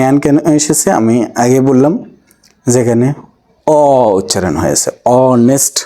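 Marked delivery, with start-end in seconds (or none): 5.2-5.8 "অনেস্ট" said with a silent h, starting on a bare o sound; honest without h. Shown as a demonstration. Teacher showing students honest has a silent h. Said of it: "হনেস্ট না".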